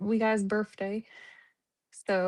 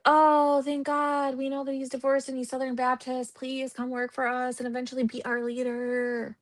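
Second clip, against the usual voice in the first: mock relieved employer; 2 semitones higher than usual. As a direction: play the relieved county board. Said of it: "They're like".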